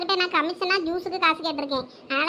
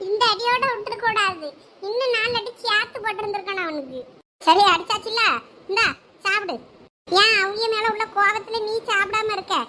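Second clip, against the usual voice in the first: ordinary delivery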